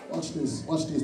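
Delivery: preacher quieting the church before the point; hushed aside. Acted. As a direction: drop to a near whisper.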